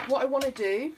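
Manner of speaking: talking through hiccups; hiccuping mid-sentence. Real, not acted. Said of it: "I've got the hiccups".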